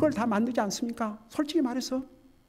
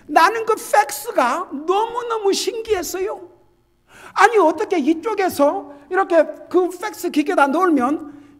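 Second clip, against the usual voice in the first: high, loud wonder; amazed; 10 semitones higher, 7 dB louder than usual. Retold or imitated. Preacher telling how magical the fax seemed, amazed. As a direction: marvel loudly, pitched way up.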